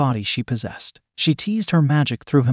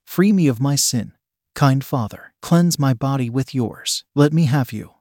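seductive demon. Acted. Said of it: "begging him just as her voice was".

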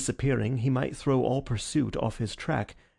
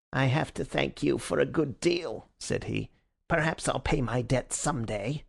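sinister threat. Acted. Villain's veiled threat.

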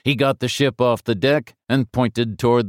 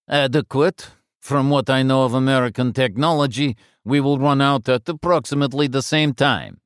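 Russian cosmonaut voice; 5 semitones higher than usual. Acted.

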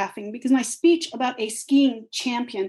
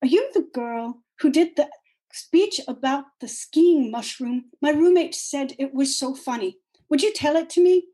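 put-on French accent; 4 semitones higher than usual. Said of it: "in a French accent".

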